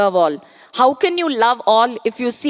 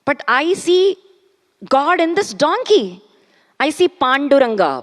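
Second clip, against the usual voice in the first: higher, earnest declaration; fervent saint; 4 semitones higher, faster than usual. Acted. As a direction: say it with fervent conviction. Ekanath speaks in the story.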